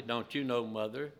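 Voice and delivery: soft, polite question to his mother. Retold or imitated. Boy Jesus answers his worried mother politely. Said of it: "very politely".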